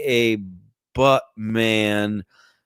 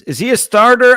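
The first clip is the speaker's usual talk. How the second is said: baffled; 10 semitones higher, 9 dB louder than usual. Real, not acted. Baffled at player stats.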